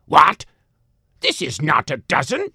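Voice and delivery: put-on loud, high old woman outraged; man doing granny voice. A narrator's reading. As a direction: screech it like an indignant granny. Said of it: "says she".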